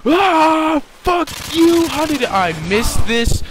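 high, loud yell of disbelief; frustrated yell. Real, not acted. Gamer missing a trap shot, frustrated yelling. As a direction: erupt as the shot goes wrong.

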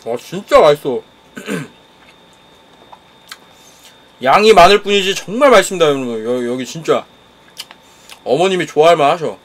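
eating between words; chewing while talking. Real, not acted. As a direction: mouth partly full of food. Seen 1: Forks food to mouth at -1, then jaw working while stirring tray.

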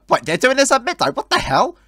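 sudden high disbelief; shocked. Real, not acted. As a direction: react in sharp surprise. Shocked by the midnight plan.

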